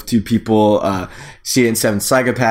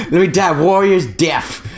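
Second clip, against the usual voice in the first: even more hammed-up dying plea, higher; overacted death scene; 6 semitones higher than usual. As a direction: ham the noble death harder.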